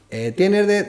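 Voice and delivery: high, eager customer voice pitched well up; mimicking hungry fans. The storyteller imitates stadium fans asking for sandwiches, high and eager. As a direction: play a pushy fan begging for a sandwich.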